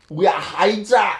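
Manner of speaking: defiant shout. Acted. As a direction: bellow the name like a battle cry. Captured spy declares allegiance.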